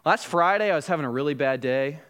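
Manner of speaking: casual, low-key understatement; acted offhand reply, pitched slightly down; nonchalant. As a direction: shrug it off as no big deal. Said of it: "in a very nonchalant way".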